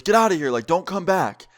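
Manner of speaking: half-yelled retold command. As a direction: imitate a worker ordering people out. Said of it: "one of the guys yells at us".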